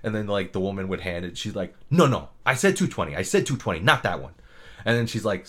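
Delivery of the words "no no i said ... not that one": mock-snippy correction. Dental assistant correcting the dentist, mildly snippy. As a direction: correct a colleague curtly, lightly imitated. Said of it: "they were so snippy with each other".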